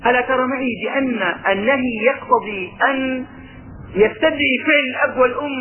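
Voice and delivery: normal talking voice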